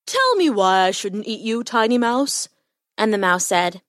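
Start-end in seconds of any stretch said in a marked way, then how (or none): 0.1-2.5 lightly voiced lion; a hint of a haughty big cat; challenging lion. A narrator's reading. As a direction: put the mouse on the spot, mildly lionlike. Lion challenges the caught mouse.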